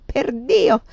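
loud, high oath; startled exclamation. A narrator's reading. Man swears as he jerks awake, startled exclamation. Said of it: "di soprassalto".

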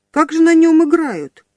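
put-on young riot policeman pestering her with questions; eager question. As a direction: fire off the question with keen curiosity. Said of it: "не утихал интересант".

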